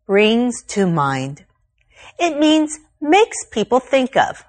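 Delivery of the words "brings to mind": "brings to mind" said slowly, each word set apart; slow, careful teacher read of "brings to mind"; phrase in focus. Shown as a demonstration. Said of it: "Our focus today is on the phrase".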